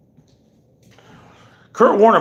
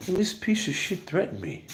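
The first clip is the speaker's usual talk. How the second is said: imitating John Bravo Films; 4 semitones higher, 11 dB quieter than usual. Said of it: "He's like".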